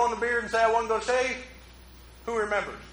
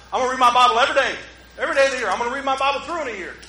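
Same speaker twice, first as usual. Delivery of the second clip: eager vow; 2 semitones higher, 4 dB louder, much faster than usual. Retold or imitated. Mocking eager Bible resolution.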